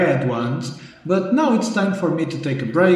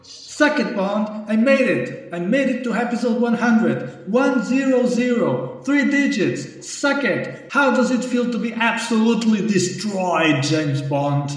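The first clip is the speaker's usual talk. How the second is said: high, gleeful gloating; gloating taunt; 4 semitones higher than usual. Acted. Host gloating at his rival Bond, triumphant. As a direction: rub the victory in his face.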